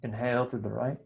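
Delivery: soft, brief cues between long silences; quietly pace each breath, a touch of meditation voice; guided breathing. Real, not acted. Teacher counting students through nostril breathing, soft meditation guiding.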